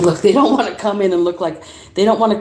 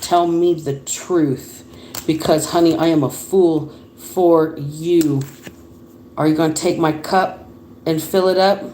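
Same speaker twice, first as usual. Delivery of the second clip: lovesick suitor; 4 semitones lower than usual. Retold or imitated. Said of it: "This person says".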